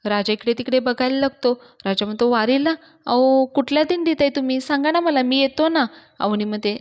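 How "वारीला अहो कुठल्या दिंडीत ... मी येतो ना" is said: वरच्या पट्टीत, मोठ्याने घाईने विचारणे; काळजीने उंच आवाजात विनवा; अधीर विनवणी. Acted. राजा अवनीला फोनवर विचारतो. (फोनवर अवनीला शोधणारा राजा, अधीर उंच आवाज)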